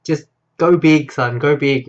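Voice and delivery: lightly voiced dad, urging his son; slow, loud retold encouragement; dad's urging voice. Retelling the dad urging his son on, lightly acted. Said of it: "heard this voice of his dad".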